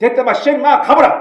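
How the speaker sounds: Gyeongsang dialect. Retelling Elijah's answer to a would-be disciple, in Gyeongsang dialect. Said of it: "경상도 사투리로".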